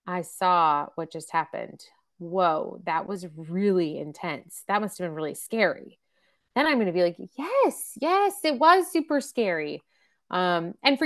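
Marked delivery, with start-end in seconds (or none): 0.1-6.0 lower, slower, gentle validation; a calm parent naming the fear; calm empathy. Shown as a demonstration. Modeling an empathetic parent response. 7.4-9.8 higher, eager yes yes; child agreeing it was scary; relieved child. Retold or imitated.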